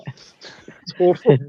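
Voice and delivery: slow unvoiced whispery voice effect; distorted voice changer sound. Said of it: "This is a voice changer right now".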